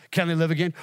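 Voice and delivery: firmer, lifted repeat of the question; rousing question. Real, not acted. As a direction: throw it out as a challenge. Same question repeated, rousing congregation.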